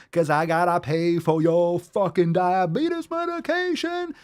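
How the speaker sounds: slow, whiny mocking rant; mock complainer. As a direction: drag it out like a petty whiner. Mocking a whiny fat-shamer.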